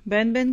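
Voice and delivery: बैन बैन said with the "ai" vowel, one syllable each; correct reading. Shown as a demonstration. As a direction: read बैन बैन as "bain bain". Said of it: "हो सकता है किसी को".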